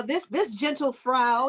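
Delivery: slow, put-on posh speaker; mock posh British. Imitating a politician turned fancy British speaker. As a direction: play the fancy Brit addressing the chamber. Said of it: "we immediately become British".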